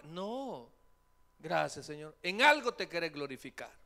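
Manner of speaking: loud, fervent thanks; mock fervent faith. Patient thanking God loudly, fervent acceptance. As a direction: proclaim trust boldly.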